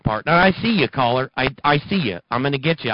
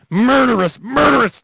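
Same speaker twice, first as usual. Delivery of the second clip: louder and higher each time; murderous yelled higher and louder each time; rising outraged shout; 12 semitones higher, 7 dB louder than usual. Acted. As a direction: hammer the word murderous, climbing to a yell. Escalating repeated word.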